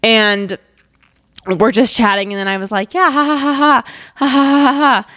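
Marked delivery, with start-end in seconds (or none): 2.9-5.1 fake casual laugh. Mock laughing while hair burns.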